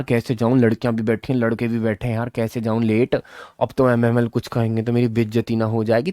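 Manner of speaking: put-on quiet, anxious inner voice of a late child; worried schoolboy. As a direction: fret softly about walking in late. Late boy's worried thoughts voiced. (लेट पहुँचे बच्चे की धीमी, घबराई हुई मन की आवाज़)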